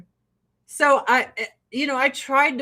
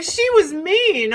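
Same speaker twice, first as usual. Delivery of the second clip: loud; 7 semitones higher, 5 dB louder, slower than usual. Retold or imitated. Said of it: "why we're like".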